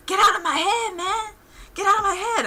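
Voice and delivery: high, loud hammed-up freakout; mock panicked yelling. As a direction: yell it like he's losing his mind. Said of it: "It's like".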